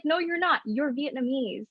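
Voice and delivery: lightly voiced mother correcting her; mom's flat denial. Mom overruling her daughter, lightly imitated firm denial.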